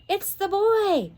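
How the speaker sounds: put-on a father roaring as he spots the boy; roared. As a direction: bellow as you spot him. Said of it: "roared Mister Gladstone".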